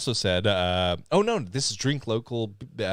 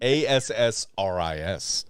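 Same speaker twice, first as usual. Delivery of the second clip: spelling out. Real, not acted. Spells out the mistaken name.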